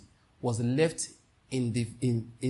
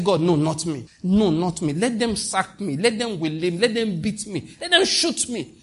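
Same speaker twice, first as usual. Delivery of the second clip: raised, pleading prayer voice; fervent retold prayer; 3 semitones higher than usual. Preacher retelling his own prayer, raised and pleading. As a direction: beg God with rising fervour. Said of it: "I said".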